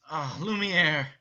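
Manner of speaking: joyful greeting. Shown as a demonstration. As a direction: greet your old friend warmly. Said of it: "as he says".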